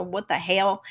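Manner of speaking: "hell" said as "hail"; casual catchphrase, "hell" turned to "hail"; Southern-style hell. Shown as a demonstration. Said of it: "we spell it H A E L".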